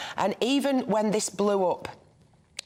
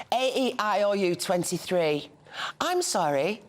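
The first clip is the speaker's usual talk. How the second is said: flat Birmingham vowels; 2 semitones higher than usual. Retold or imitated. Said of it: "doesn't understand the flat vowel".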